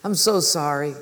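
mildly dejected apology; discouraged. Acted. Cobbler praying to God after missing the visit, discouraged. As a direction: apologise in prayer with a touch of regret. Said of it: "he felt so discouraged".

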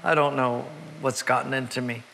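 weeping. Retold or imitated. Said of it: "he begins to weep".

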